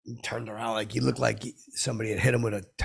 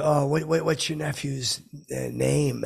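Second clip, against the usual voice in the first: higher; 5 semitones higher, 5 dB louder than usual. Acted. Celebrity reluctantly asking.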